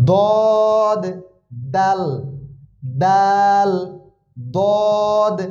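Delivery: দদ said heavy and full in the throat, দাল said light and clear; slow drill of single Arabic letter names, each held apart. Shown as a demonstration. Teacher drills the letter sounds for students, slow and careful. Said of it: "দদের উচ্চারণ একরকম, দালের উচ্চারণ একরকম".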